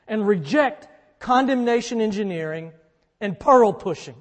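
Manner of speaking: loud, punchy preacher emphasis on condemnation and pearl; emphatic preaching. Real, not acted. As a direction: drive each phrase home from the pulpit. Preacher hammering his coined phrases.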